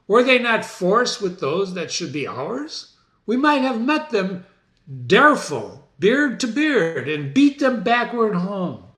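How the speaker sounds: lightly voiced bold king; scornful Macbeth. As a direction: bluster about beating them.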